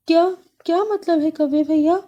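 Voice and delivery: high, shocked little sparrow; startled sparrow. Acted. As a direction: sparrow can't believe it.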